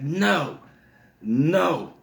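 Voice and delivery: put-on high-pitched little-kid refusal; defiant toddler. Toddler refusing the babysitter at bedtime, high and defiant. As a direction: imitate a stubborn small child.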